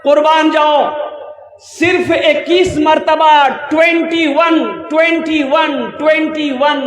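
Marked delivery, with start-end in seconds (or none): 1.6-6.8 preacher calling out the count; emphatic call. Real, not acted. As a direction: drive the number home to the crowd.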